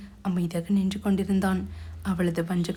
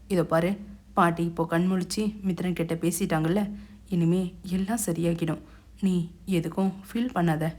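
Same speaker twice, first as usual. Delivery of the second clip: consoling; 2 semitones lower than usual. Acted. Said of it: "ஆறுதல் கூற முற்பட்டான்". (மென்மையான ஆறுதல் குரல்)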